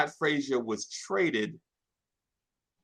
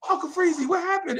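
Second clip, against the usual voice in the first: kind teacher voice; 12 semitones higher, faster than usual. Retold or imitated. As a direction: coo at the crying boy. Female teachers comforting crying boy.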